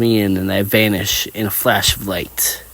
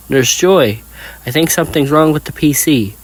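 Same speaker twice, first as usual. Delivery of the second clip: calling over; 6 semitones higher, 3 dB louder than usual. Acted. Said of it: "I call over to Joy".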